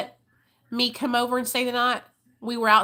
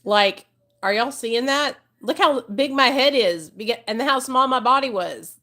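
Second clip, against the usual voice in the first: excited; 3 semitones higher, 6 dB louder than usual. Real, not acted. Excited showing old photo.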